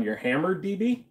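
high, amused surprise; surprised. Real, not acted. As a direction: pitch it way up in disbelief. Chatter seems drunk.

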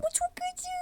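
high strained whisper, mouth on fire; burning whisper. Pretend. Doll whispers high that the drink burns. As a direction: gasp the words out through the burn.

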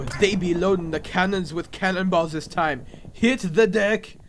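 wobbly character voice; pirate slipping into Arnold Schwarzenegger. Acted. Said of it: "turned into Arnold Schwarzenegger".

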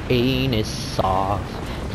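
"Anus off" low and very slow; low drawn-out. Shown as a demonstration. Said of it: "He's gonna eat my anus off".

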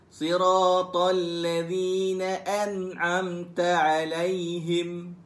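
slow melodic chanted recitation; Quran recitation. Shown as a demonstration. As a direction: recite in a slow tarannum line. Recitation demo. (bacaan al-Quran berlagu perlahan)

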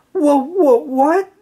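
high, stammering shock; stunned squeak of disbelief; sputtering. A narrator's reading. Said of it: "SpongeBob sputtered".

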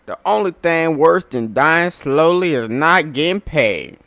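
loud, slow, gruff boss voice; gruff crew boss. Acted. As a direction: bark orders like a hardened captain. Voices game character dialogue.

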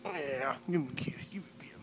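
hushed, low coax; soft coaxing. Real, not acted. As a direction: murmur it to the puppy. Soft to dog.

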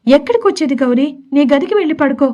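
a touch of irritation, scolding him lightly; annoyed scolding. Acted. Wife shooing her husband back to his room, mildly irritated. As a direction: brush him off, mildly fed up. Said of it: "విసుగ్గా".

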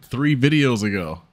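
ordinary talk, nothing marked

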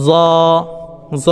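জ as a z with held rounded vowel; tongue tip to upper teeth, sustain জ; demonstrated letter sound. Shown as a demonstration. Teacher showing learners this is how, isolated জ. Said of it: "এভাবে আপনারা".

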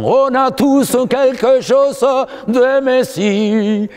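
drawn out slowly, high and emphatic; slow emphatic saying. Shown as a demonstration. Commentator to interviewer, the slow emphatic motto. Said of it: "Je dis tout le temps".

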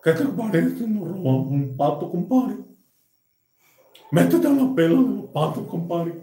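lightly nasal gangoso voice. Retold or imitated. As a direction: pinch the words through the nose. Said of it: "Y le dice".

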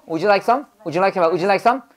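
"Would you like some" rattled off as one word; really fast. Shown as a demonstration. Teacher drilling the front of the sentence, really quick. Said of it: "앞엔 진짜 빨리 하고요".

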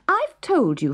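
high, impatient retort; annoyed princess. A narrator's reading. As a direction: snap back at her father. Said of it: "stamping her foot in annoyance".

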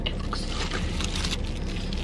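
breathy, slow whisper of awe. Real, not acted. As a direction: whisper it, admiring the food. Admiring her bagel sandwich.

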